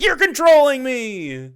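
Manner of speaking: high, loud whiny yell; mock outraged yell. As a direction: shriek it like a tantrum. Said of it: "and you're like".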